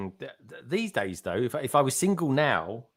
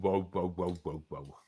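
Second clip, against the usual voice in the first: mock astonishment; 7 semitones lower, 9 dB quieter than usual. Real, not acted. Reacting to Solo's name change.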